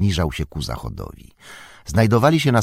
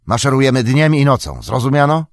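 loud, high orc chief's demand; loud demanding command; 7 semitones higher, 6 dB louder than usual. A narrator's reading. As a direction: bark it so nobody dares object. Ugluk ends orders, demanding.

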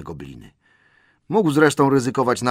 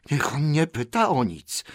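higher creature croak; screeching Gollum; 6 semitones higher than usual. A narrator's reading. Gollum refuses Bilbo's questions, in a high croak. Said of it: "zaskrzeczał Golum".

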